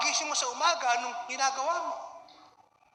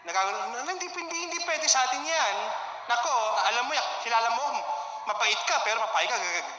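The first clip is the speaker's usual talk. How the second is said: mock scolding with a laugh; sassy friend. A friend egging you on to fight back, sassy. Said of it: "Naku, sampalin mo".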